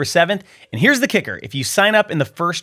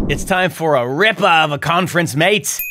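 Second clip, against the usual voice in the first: a hammed-up Australian accent; terrible Australian accent. Promoting an Aussie conference in a bad Australian accent. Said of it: "I apologize for the terrible accent".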